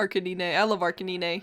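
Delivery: softly, "Arcanine" as ar-kuh-nee-nay; deliberate mispronunciation. Shown as a demonstration. Friend echoes the mangled name fondly, deliberate mispronunciation. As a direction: end "Arcanine" in nee-nay, low and soft. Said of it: "trying to mispronounce it horribly on purpose".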